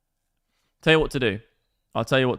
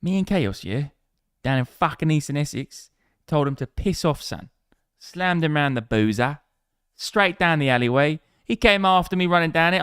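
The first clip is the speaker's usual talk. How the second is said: hammed-up Cockney geezer, pitched up; mock Cockney; 5 semitones higher than usual. Streamer spinning a pub yarn, exaggerated Cockney accent. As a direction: play a matey Cockney pub storyteller. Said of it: "You sound like a proper".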